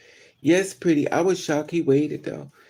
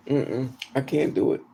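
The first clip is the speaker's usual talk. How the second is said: ordinary delivery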